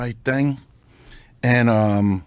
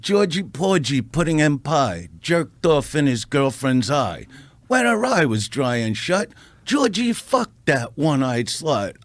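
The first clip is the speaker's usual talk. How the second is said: recited poem. Retold or imitated. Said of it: "I go".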